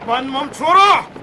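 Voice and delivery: slow, booming order to halt; commanding shout. Acted. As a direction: bellow the command to stop the troops. General halts his marching army.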